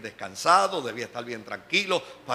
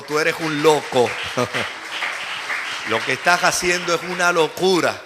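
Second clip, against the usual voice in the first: loud, scolding boss voice, half laughing; boss calling him crazy; 2 semitones higher, 9 dB louder than usual. Retold or imitated. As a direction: shout it at him like a boss who can't believe it. (jefe regañando en voz alta, medio riendo)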